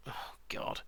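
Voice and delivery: whispered dismay. Real, not acted. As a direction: breathe it out, unvoiced. Another bid arrives.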